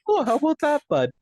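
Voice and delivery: high, loud mock Canadian accent; hammed-up Canadian accent. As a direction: ham up a thick Canadian accent. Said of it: "Is it that thick right now?".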